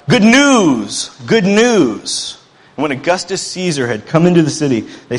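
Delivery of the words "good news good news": loud, high herald's cry; runner's shout. Acted. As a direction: shout it out like a messenger arriving with news. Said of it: "they would shout".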